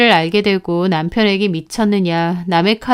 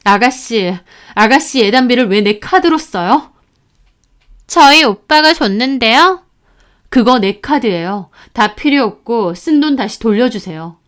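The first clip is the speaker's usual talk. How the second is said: angry; 2 semitones higher, 4 dB louder than usual. Retold or imitated. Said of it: "너무 화가 나서 신우에게 전화해서 따졌어요".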